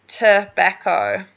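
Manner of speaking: tobacco said slowly, a-as-in-cat stressed middle syllable; teacher carefully models tobacco. Shown as a demonstration. Teacher to student who struggled: slow clear model of tobacco. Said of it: "some doubts pronouncing tobacco".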